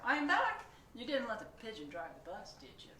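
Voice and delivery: loud, high cheery driver return; bus driver voice. Acted. Bus driver returns and checks with the readers, cheery. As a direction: bounce back in as the driver.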